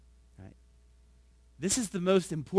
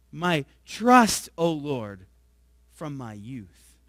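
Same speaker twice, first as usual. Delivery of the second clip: louder, solemn psalm reading; scripture reading; 4 dB louder than usual. Acted. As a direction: read the psalm to the congregation with weight. Reads psalm aloud.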